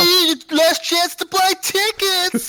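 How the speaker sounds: high, slow announcer parody; hammy ad announcer; mock ad voice. Mocking TwitchCon pop-up ads.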